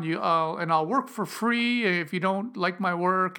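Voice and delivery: hammed-up nervous junior begging for work; meek apologetic caller. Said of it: "I was kind of making fun of that".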